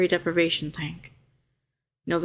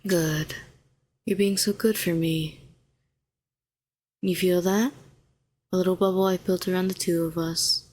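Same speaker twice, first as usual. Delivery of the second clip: calm, even, unhurried coaxing; soothing guidance. Acted. Helping a shaken hero find their pulse, soothing. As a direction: guide them gently back to steady breathing.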